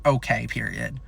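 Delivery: low, deadpan okay, period; dad's blank okay, nothing behind it; flat okay. Retold or imitated. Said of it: "I don't know if that's a yes okay or a no okay".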